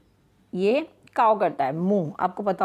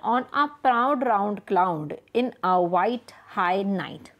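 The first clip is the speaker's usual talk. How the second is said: slow, deliberate reading of the example; 2 semitones lower, much slower than usual. Shown as a demonstration. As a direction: read the example line slowly. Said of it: "For example". (धीमे से उदाहरण पढ़ना)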